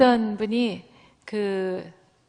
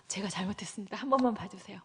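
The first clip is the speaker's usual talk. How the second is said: much softer, begging for pardon; pleading; 2 semitones lower, 9 dB quieter, faster than usual. Retold or imitated. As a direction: beg quietly as if on your knees. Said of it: "싹싹 빌고". (싹싹 비는 조용한 애원)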